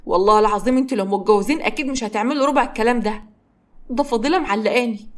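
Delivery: resentful grandfather. Acted. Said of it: "بيبص لهم بغيظ".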